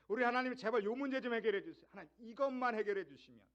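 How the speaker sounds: loud, pleading mock prayer, voice pushed high; imitating a begging prayer. Preacher mimics the congregation's loud begging prayer. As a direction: ham up a desperate plea to God. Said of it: "우리 항상 그렇게 기도하잖아요".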